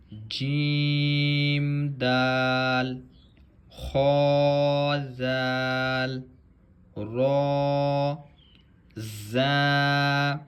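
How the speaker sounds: slow, drawn-out letter drill; measured Arabic letter recitation; Qaida recitation. Shown as a demonstration. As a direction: recite each letter clearly like a Quran teacher.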